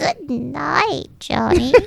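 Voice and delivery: put-on high, creaky, croaking old hag voice. Telling what the speaker wanted to say to John at bedtime, old hag voice. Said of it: "bust out the old hag's voice".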